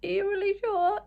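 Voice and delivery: checking the cashier again. Retold or imitated. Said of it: "And I'm like".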